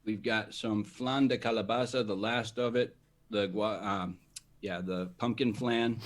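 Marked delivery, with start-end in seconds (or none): 0.8-2.1 Spanish pronunciation of the flavour name; Spanish accent. Real, not acted. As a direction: say it as a fluent Spanish speaker. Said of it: "Spanish accent".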